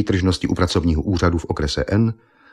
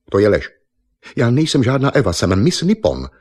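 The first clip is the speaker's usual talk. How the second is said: higher, louder indignant protest; a proud beauty queen insulted; indignant Miss Nippon; 5 semitones higher, 4 dB louder than usual. Acted. Miss Nippon denying she is Eva, higher and louder.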